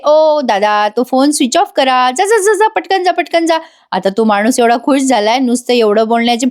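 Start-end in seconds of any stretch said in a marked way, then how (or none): 0.1-3.6 high, hurried mock urging; urgent shooing. Aishwarya hurrying the man out, excited high urging. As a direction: shoo the man off quickly, voice rising. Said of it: "Aishwarya म्हणते".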